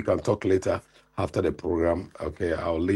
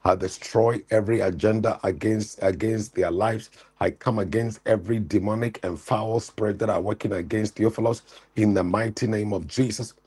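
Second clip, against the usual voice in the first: fervent deliverance prayer, raised pitch; preaching prayer; 3 semitones higher than usual. Acted. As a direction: pray over him with full force. Prays over caller's son.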